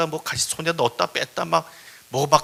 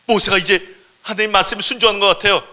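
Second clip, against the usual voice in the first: loud, raised-pitch delight; excited report; 5 semitones higher, 9 dB louder than usual. Acted. Thornbush telling God Moses now obeys, excited and loud. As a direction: pass on good news eagerly.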